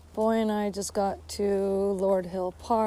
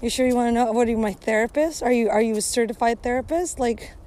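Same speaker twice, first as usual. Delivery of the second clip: irritated rant; 2 semitones higher, 3 dB louder, faster than usual. Pretend. Ranting at imagined small talker.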